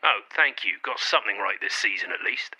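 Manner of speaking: miserable, self-pitying grumble; mopey. Real, not acted. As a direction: sulk through the thanks, sinking by the end. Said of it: "stop being such a mopey cunt".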